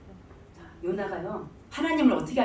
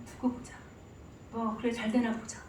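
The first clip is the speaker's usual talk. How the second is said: sulky Jonah; 10 dB quieter than usual. Acted. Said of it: "제가 폼을 한번 잡아볼게요".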